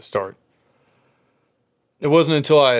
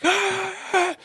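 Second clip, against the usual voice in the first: mock muffled yelling. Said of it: "It's just muffled through the walls".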